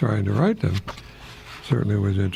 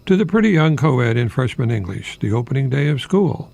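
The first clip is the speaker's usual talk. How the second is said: reading a title. Acted.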